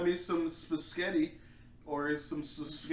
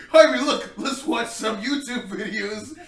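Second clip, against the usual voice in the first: cheering up; 5 semitones higher, 8 dB louder, slower than usual. Retold or imitated. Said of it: "I was like".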